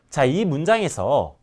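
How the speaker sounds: ordinary talk, nothing marked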